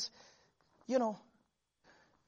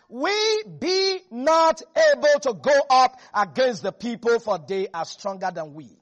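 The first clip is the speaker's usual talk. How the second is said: doubting spy; 6 dB louder than usual. Retold or imitated. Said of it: "the man that went up with him said".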